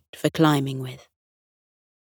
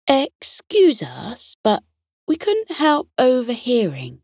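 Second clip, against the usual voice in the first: official detective voice; 7 semitones higher than usual. A narrator's reading. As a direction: whisper it like a serious little detective. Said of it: "putting on her most official detective voice".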